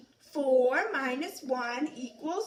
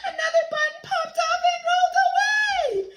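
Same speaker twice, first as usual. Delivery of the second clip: higher and fast, excited; dramatic telling; 12 semitones higher, 3 dB louder, faster than usual. A narrator's reading. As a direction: ham up the drama. Dramatic story moment.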